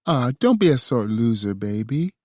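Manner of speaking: put-on high, teasing baby voice. A narrator's reading. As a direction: tease him in a high baby voice. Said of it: "Bella teased me in a baby voice".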